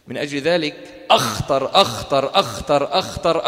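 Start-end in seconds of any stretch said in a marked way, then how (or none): 1.1-3.5 repeating أخطر through real laughter; laughing. Real, not acted. Teacher to class, laughing over the word. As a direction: say أخطر again and again, breaking into laughs.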